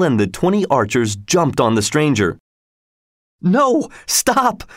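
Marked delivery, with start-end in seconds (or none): 3.4-4.6 very high urgent call; storybook exclamation, pitch leaping up; crying out. A narrator's reading. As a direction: cry out high to halt them. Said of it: "cried Robin".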